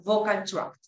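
"the vocal tract" spoken carefully as a model; slow, careful English "vocal tract"; English model word. Shown as a demonstration. Teacher models the English term for Spanish-speaking students. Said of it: "eso se llama el aparato fonador".

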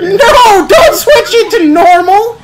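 laughing panic. Real, not acted. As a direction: beg through laughter.

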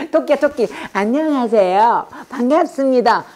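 sweet, drawn-out rabbit-like politeness; bright innocent greeting. Shown as a demonstration. Teacher modelling kind talk to others, innocently sweet. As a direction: greet like a harmless little bunny. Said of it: "아주 해맑아져야 돼".

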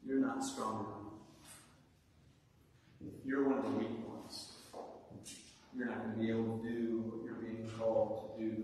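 lightly acted, low discouraging inner voice; self-doubt's voice. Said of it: "the voice of self-doubt".

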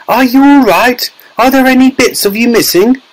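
high, fretful mother's questions; anxious cry. A narrator's reading. Mother checks her tiny son, anxious high cry. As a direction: fuss anxiously, voice pitched high. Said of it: "cried Missus Teavee".

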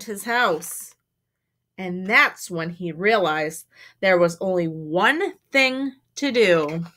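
measured, emphatic storytime narration; story read to children. A narrator's reading. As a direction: draw out the key words for young listeners. Reads a picture book aloud.

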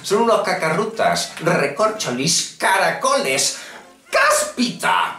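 hammed-up cartoon villain cursing; cartoonish mock insults. Childish mock insults at Microsoft. (insultos infantiles en voz de caricatura)

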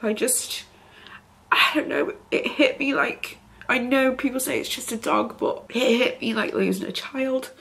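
quiet, choked-up grief; holding back tears; tearful. Real, not acted. Grieving over lost dog.

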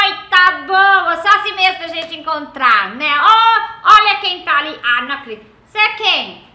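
loud, high, gushing greetings; thrilled to spot old friends; excited reunion. Retold or imitated. Mom greeting old acquaintances at a funeral, loud and gushing. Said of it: "Ela fala".

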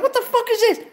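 high, laughing "what the fuck"; mock disbelief. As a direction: squeal it in half-laughing shock. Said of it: "I'm like".

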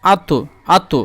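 আত with a heavy, round-mouthed t; rounded emphatic t. Shown as a demonstration. Teacher demonstrating the letter to learners, rounded t in আত. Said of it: "মুখখানা একটু গোল করবেন".

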